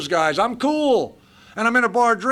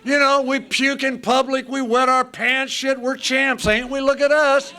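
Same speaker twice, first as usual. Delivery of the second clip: mocking drunken boasting, higher; sarcastic bravado; 3 semitones higher than usual. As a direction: sneer at the proud drunk.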